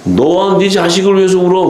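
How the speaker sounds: high, declaimed retold command; mock stern rebuke. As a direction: act out a stern order, pitched well up. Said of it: "주님도 냉정하시지". (높은 음으로 엄하게 명하는 흉내)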